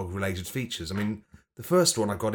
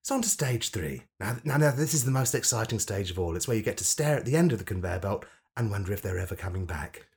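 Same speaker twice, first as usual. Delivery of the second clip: cheerfully camp, hiding a grim punchline; funny camp voice. Acted. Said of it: "But I did it in a funny camp voice".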